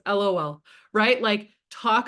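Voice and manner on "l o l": monotone. Shown as a demonstration. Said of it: "L O L in my monotone voice".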